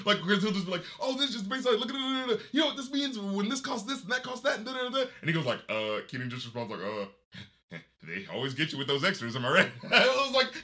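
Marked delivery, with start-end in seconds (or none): 1.0-5.0 high-pitched running patter, imitating; mock rambling rant. Imitating Sinbad listing repair costs, mock rambling. 6.8-9.7 low, understated comeback after a pause; deadpan reply. Retold or imitated. Keenan answering Sinbad's rant, imitated deadpan.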